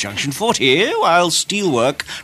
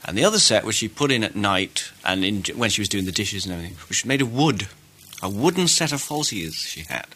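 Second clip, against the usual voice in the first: confiding hush; 4 semitones lower, 7 dB quieter than usual. Pretend. Confiding gossip about the queen.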